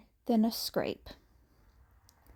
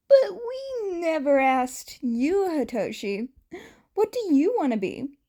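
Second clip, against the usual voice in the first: gentle question; 6 semitones higher, 3 dB louder than usual. Acted. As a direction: ask a shy kid gently. Yamada asking Hitoshi.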